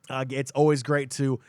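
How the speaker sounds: blocked nose from allergies; stuffy nose. Real, not acted. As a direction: talk through a congested stuffy nose. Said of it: "I'm a little stuffy".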